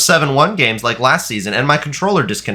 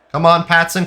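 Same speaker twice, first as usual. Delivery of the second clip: higher, more pleading come on; urgent urging; 5 semitones higher than usual. Real, not acted. Urging his striker forward, higher and more desperate. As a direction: push him on harder the second time.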